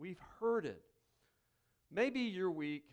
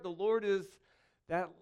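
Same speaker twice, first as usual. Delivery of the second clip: mock misquote; 4 semitones higher than usual. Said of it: "It doesn't start".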